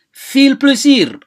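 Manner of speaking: bright, loud and high, a bit slow; cheerful. Shown as a demonstration. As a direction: wish someone fun with real cheer. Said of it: "teacher models cheerful wish". (si farxad leh oo kor ah)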